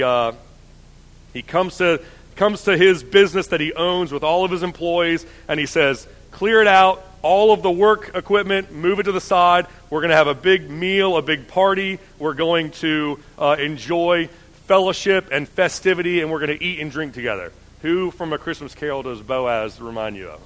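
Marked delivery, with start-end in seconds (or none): 6.3-17.5 calling out. Acted. Preacher voices Boaz's party call.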